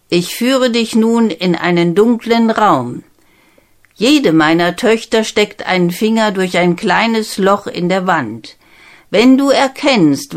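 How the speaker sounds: a king testing his daughter's suitor; stern king giving orders; commanding king. Acted. King sets second task.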